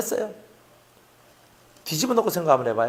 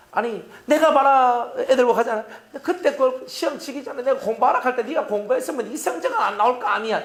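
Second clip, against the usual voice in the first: nagging parent; 4 semitones higher than usual. Acted. Acts a parent scolding over exam results.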